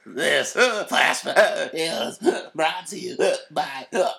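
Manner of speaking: sponsor read broken up by hiccups; hammed-up hiccuping announcer; mock hiccups. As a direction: hiccup after every word or two. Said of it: "can't stop hiccuping for entire broadcasts".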